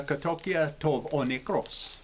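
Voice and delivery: "katokia tov o nekros" in anglicized Greek; approximate Greek pronunciation. Shown as a demonstration. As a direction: sound out "katokia tov o nekros" as ka-TOH-kee-a tove oh NEK-ros. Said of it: "sorry again for my accent".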